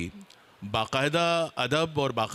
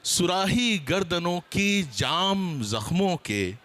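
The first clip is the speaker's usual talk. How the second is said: verse recitation; slower than usual. Acted. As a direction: draw out the verse for the audience. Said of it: "कुछ थोड़ा सा शेरी अंदाज". (धीमे, ऊँचे सुर में शेर पढ़ना)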